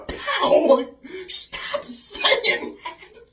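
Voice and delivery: high, loud, laughing mock yell; mock scolding. Telling off his past self, laughing mock shout. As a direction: act out smacking someone, drawing out the words. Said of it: "would have done the same thing to my past self".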